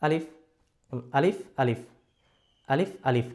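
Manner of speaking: measured counting of আলিফ; timing demo. Shown as a demonstration. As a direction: say আলিফ twice steadily to show the beat. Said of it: "যেমন আমি দেখাচ্ছি".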